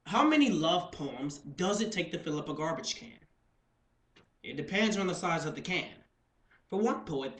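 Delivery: measured, projected competition-speech intro; deliberate, lightly theatrical announcing; poetry program introduction. Acted. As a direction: present the title and author to an audience.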